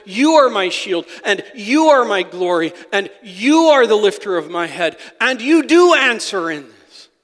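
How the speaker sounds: loud, insistent affirmation of faith; bold declaration. Retold or imitated. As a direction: declare it to God, leaning on each "You". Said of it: "declaring to the Lord".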